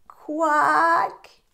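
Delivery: high quack; duck's quack. Acted. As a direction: quack back at the farmer. Duck's reply.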